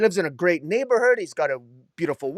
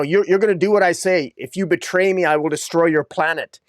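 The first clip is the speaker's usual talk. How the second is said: put-on louder, grandly menacing kid; pretentious kid threat; 4 dB louder than usual. Creepy kid threatening the neighbor, a touch louder and grand. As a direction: lay down the law like a tiny overlord. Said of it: "this kid's really pretentious".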